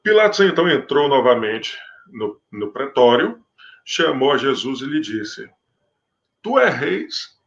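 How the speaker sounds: measured, solemn Bible reading; scripture reading. Acted. Preacher reading the Gospel to his listeners, solemn. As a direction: read the passage to the congregation with gravity.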